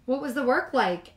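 a hint of an eager mama; cheerful mother. Mama greeting cubs from bus, bright.

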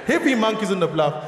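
ordinary delivery

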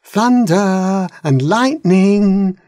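eager request. A narrator's reading. Dragons tell the king.

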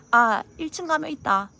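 loud, high, matter-of-fact call; offhand bluntness. Acted. Telling boyfriend about a gift, blunt and offhand. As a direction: toss it out loudly, no sweetness. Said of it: "약간 이 느낌".

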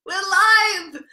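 high-pitched, bubbly "we're live" opener; hyper excited greeting. Real, not acted. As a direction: burst in full of energy to greet friends. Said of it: "I'm feeling extra hyper and excited today".

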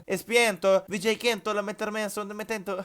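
light mock Spanish babble; fake Spanish gibberish. Mock-Spanish babble at the robbery target. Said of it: "Portekizce mi, İspanyolca mı".

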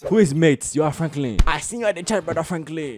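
lightly voiced put-on churchgoer; insistent churchgoer. Churchgoer recognising Brother Franklin from church, lightly acted insistence. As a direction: insist you know him, lightly in character.

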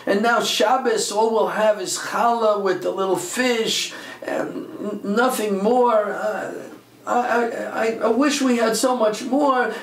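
high, slow, tearful child's plea, lightly imitated; crying child. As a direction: mimic a weeping kid complaining to his mother. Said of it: "One of the kids is crying and screaming to the mother".

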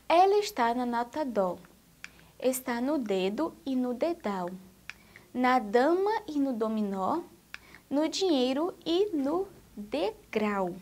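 put-on measured, sing-song poem reading for children; gentle rhythmic recital; poem recitation. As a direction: read it like a nursery rhyme, line by line. Teacher reads the poem aloud.

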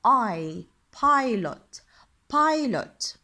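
I said like its letter name, "eye"; long I sound. Shown as a demonstration. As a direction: pilot with a clear, loud "PIE" first syllable. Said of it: "يعني صوته مثل، آه، اسمه".

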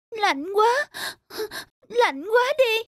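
whimpering, freezing little bird; shivering with cold. Acted. Freezing swallow complains to the snowdrop, whimpering. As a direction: tremble through the cold.

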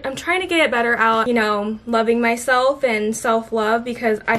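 slight lisp from new Invisalign aligners. Real, not acted. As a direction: talk around a new retainer tray. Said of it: "I'm lisping".

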